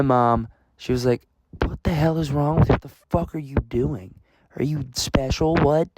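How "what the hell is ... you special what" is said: imitated mom scolding, a bit higher; mildly voiced exasperated telling-off; pissed-off mom. Mom confronts her son after he walked off, mock annoyed. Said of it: "She's pissed".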